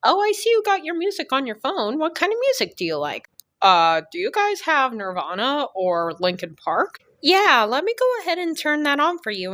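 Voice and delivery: put-on high, chirpy Eastern European accent. Surgeon chatting about music, high Eastern European accent. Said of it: "Miss Eastern European".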